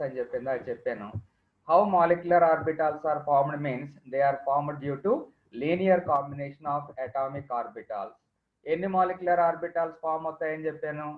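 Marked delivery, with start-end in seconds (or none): 1.7-8.2 dictating notes very slowly; slow dictation. Acted. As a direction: read it out for students to write. Dictating definition.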